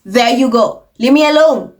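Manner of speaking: imitating a fed-up dismissal; mild mock irritation, ending firmer; sarcastic brush-off. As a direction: toss it off, mock annoyed. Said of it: "That's the vibe".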